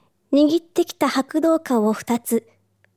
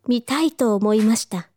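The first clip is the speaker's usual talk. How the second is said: usual speaking voice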